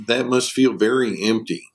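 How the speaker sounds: gentle, validating therapist reply. Acted. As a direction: say it gently, in an even, unforced voice. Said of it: "That's, that's gentle".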